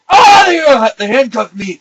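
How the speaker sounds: high, loud cry that falls; comic tearful holler; mock wailing. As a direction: wail it pitifully, hammed up. Acted detainee wailing.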